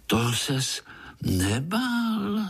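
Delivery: slow, high-pitched amazement, drawn out; little Pája marvels at his uncle's story, slow and amazed; amazed question. Acted. Pája asks his uncle in slow, high-pitched wonder. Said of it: "divil se Pája".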